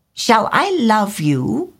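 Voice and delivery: high, slow little bird voice; swallow's voice. A narrator's reading. Swallow asking the reed directly, high and slow. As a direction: ask it sweetly as a small swallow. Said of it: "said the swallow".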